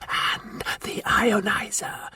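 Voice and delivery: slow, whispered hiss. A narrator's reading. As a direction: hiss it through the teeth. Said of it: "hissed the Martian".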